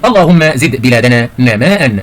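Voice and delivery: slow, drawn-out example sentence; slow model reading. Shown as a demonstration. Teacher reads the exercise sentence to pupils, slow model reading. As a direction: read it out slowly, stretching نماء.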